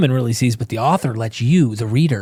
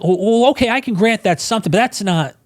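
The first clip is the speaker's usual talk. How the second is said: higher, sneering imitation of a critic; lightly mocking know-it-all voice; mocking dismissive tone; 7 semitones higher than usual. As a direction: brush it off like a gotcha.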